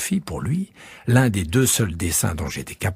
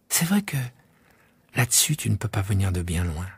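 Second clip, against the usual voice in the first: put-on musing child; 3 dB quieter than usual. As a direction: think it through aloud. Prince musing.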